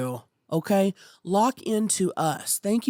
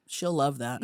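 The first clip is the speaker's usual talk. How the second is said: low, soft character voice; lightly voiced character; Sue Dillon voice; 4 semitones lower, 5 dB quieter than usual. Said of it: "Sue Dillon".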